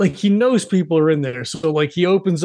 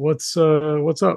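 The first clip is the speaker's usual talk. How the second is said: put-on mutter under the breath. Describing a man in a scene greeting someone, retelling a mutter under his breath. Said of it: "then under his breath is kind of like".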